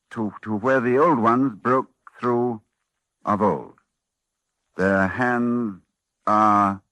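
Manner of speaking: slow, halting recitation of an ancient text; measured, awed reading of old words; solemn reading. Acted. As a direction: read it like a forbidden incantation. Reads the ancient text aloud.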